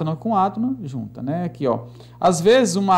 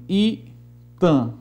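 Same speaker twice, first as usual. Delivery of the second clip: syllable-by-syllable scansion. Shown as a demonstration. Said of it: "vamos escandear aqui alguns versos".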